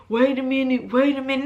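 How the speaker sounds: lightly voiced friend stalling her; a hint of someone holding her back, "wait a minute"; mild imitation of the friend saying "wait a minute"; mock stalling friend. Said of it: "No, not wait a minute".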